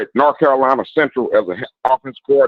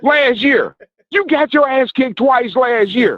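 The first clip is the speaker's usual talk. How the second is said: high-pitched, slow, gloating taunt; trash talk; 9 semitones higher, slower than usual. Real, not acted. Caller repeating the jab at Southern fans, gloating. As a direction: lean on it, drag the insult out.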